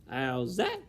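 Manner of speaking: Mig's mild shout. Acted. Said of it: "shouted Mig".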